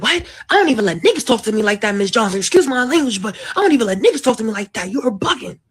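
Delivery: loud, offended protest; indignant angry dad; offended shout. Retold or imitated. Boyfriend acting offended dad.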